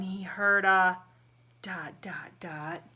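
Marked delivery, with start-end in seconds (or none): 1.6-2.8 soft whispered build-up; suspense whisper. A narrator's reading. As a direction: whisper each dot slowly. Suspense cue in story.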